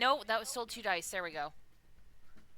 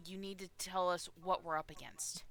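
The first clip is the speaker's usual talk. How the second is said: approach gently, voice lowered; gentle approach; 3 semitones lower than usual. Acted. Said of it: "gently approach".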